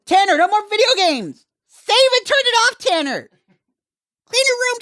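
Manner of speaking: put-on high, loud mum calling her kid; yelling across the room. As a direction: shout for him from the next room. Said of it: "the real, real bogan name".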